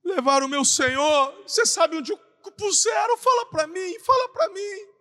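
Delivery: Mary at the empty tomb begging for her Lord, crying out in distress; Mary's desperate plea. Acted. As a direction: beg for an answer in anguish. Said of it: "O que que ela responde?".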